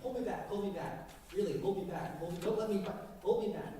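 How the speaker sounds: hammed-up "hold me back" bluster from someone who doesn't really want to fight; a posturing fighter's mock plea; fake tough guy. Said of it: "if someone wants to get in a fight and go".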